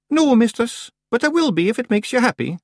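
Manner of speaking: high Scots voice, obliging; careful. A narrator's reading. Billy placates the witch about being afraid, careful. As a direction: answer diplomatically in a piping pitch. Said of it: "said Billy carefully".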